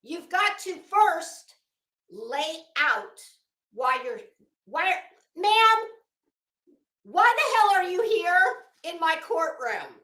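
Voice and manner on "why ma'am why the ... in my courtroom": louder, higher, a judge's exasperated scolding; irate judge snapping at a rambling litigant, raised voice; mock judge outburst. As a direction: ham up an irate judge demanding answers.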